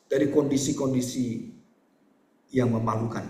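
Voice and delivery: measured prayer with long pauses; doa penutup. Real, not acted. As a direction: lead the congregation in earnest prayer. Leads closing prayer. (doa khidmat dengan jeda panjang)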